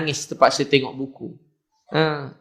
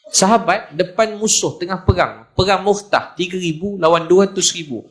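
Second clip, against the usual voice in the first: higher-pitched, driving sermon delivery; fired-up preaching; 4 semitones higher than usual. Real, not acted. Preacher tells congregation of companions facing war, fired-up preaching. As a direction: build the battle up for the congregation.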